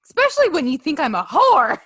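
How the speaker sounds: mock outrage, rising in pitch; indignant wife. Wife scolding her doubting husband, mock indignant.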